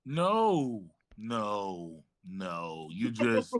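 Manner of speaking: a fussy British healer calming a friend; lightly put-on British accent. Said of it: "I don't know how to do my accent today".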